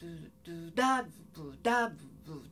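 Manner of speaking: low nonsense syllables with accented beats; mimicked English rhythm. Shown as a demonstration. Teacher illustrates how English bounces, low mimicked rhythm. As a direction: imitate English stress in low da-bu sounds. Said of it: "英語ってこう、".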